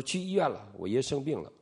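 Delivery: a lightly voiced small girl on the phone; little girl. Niece telling her uncle grandpa is in hospital, lightly voiced girl.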